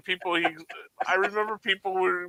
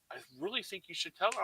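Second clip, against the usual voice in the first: mock hushed friend; 4 semitones higher, 10 dB quieter, faster than usual. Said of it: "my friend goes".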